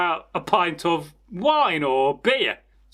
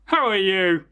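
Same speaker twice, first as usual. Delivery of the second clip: cat voice. Acted. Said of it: "the cat said".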